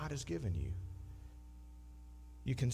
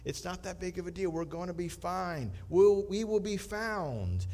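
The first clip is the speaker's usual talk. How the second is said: calm; 4 semitones higher than usual. Acted. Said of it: "acting so calmly".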